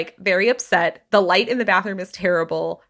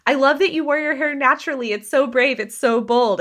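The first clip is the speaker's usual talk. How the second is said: gushing in-laws; 6 semitones higher than usual. Retold or imitated. In-laws' gushing compliment quoted.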